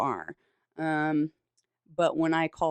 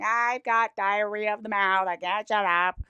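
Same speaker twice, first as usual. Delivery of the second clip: put-on loud drunk self; 5 semitones higher, 5 dB louder than usual. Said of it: "And it's like".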